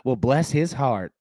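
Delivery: slow mock-sweet Southern "bless his heart"; drawn out like a polite Southern dig; a hint of a Southern church lady, slowed down; Southern saying. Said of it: "that Southern way".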